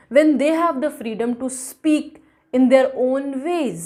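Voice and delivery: slow, measured verse reading; deliberate poem reading; poem recitation. A narrator's reading. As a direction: recite each phrase slowly and distinctly. Reads the poem aloud.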